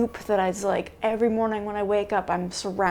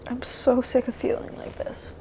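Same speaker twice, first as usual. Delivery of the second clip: weary; 3 semitones higher than usual. Real, not acted. Exhausted vlogger venting.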